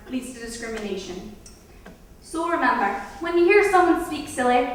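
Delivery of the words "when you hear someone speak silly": silly voice. Shown as a demonstration. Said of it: "like this".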